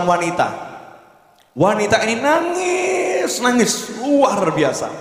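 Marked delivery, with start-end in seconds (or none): 1.5-4.9 crying woman. Retold or imitated. Woman weeping before the scholar.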